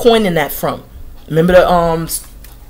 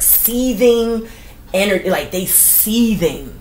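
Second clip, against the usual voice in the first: drawn-out seething; 4 semitones higher, slower than usual. Shown as a demonstration. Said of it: "savours the word seething".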